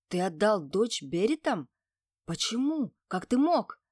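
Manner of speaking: loud, shocked demand; rising indignant shout; angry outburst. Acted. Heroine learns daughter was given.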